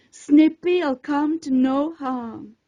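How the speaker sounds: slow, gentle reassurance; calm the worried student slowly; slow soothing promise. Acted. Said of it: "she soothed".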